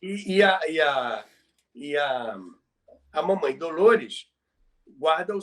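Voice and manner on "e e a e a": usual speaking voice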